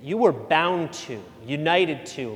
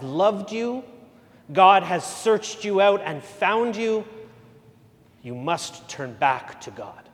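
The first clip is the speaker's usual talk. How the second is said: Ugandan priest's counsel. Retold or imitated. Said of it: "I'll try not to do the accent".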